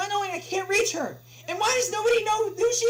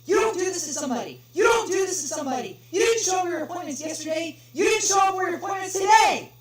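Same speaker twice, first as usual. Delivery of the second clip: much higher, much louder outraged shouting; furious screaming; 17 dB louder than usual. Acted. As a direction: scream in outrage at the useless clerk. Caller screams at clerk.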